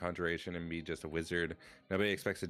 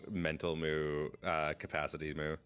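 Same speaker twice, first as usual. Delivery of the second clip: moo redeem. Pretend. Streamer thanking chat, adding moo after every word. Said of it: "This is the Moo Redeem".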